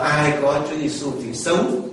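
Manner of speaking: slightly projected verse reading; reading aloud, speaking up. Real, not acted. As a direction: read the verse out so everyone hears. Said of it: "Nói to đi".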